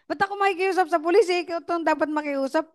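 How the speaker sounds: high, fast disbelieving retort; incredulous. Retold or imitated. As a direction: throw the question back at him. Repeats her incredulous reply. (mabilis at mataas na hindi makapaniwalang tanong)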